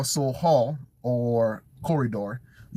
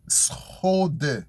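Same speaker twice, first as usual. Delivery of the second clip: slow demonstration. Shown as a demonstration. Slow model of new word.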